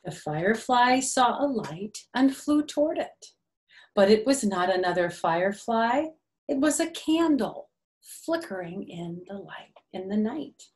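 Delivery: gentle, sing-song storybook reading; lightly lilting picture-book narration; reading to children. A narrator's reading. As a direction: read it like circle time for little ones.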